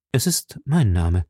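slow, composed reply; calm, unperturbed. A narrator's reading. Athos answers the flustered official, slow and calm. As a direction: answer evenly, taking your time. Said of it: "versetzte Athos gelassen".

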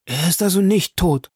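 high, incredulous question; shocked disbelief. A narrator's reading. Bertuccio asks the Count about his victim, shocked. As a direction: press the question, aghast. Bertuccio learns Villefort is alive.

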